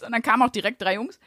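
normal talking voice

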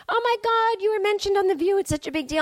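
high, squealy imitation of excited tweets; mock gushing fan. Fans tweeting her about The View, hammed-up excitement. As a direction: play up the breathless fans.

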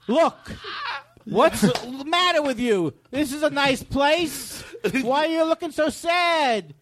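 mock Italian accent. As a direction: riff in a hammed Italian accent. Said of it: "ever did an Italian accent".

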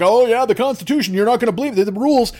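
lightly voiced smug customer; a hint of a self-righteous shopper; mock entitled glee over the rules. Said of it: "they're like".

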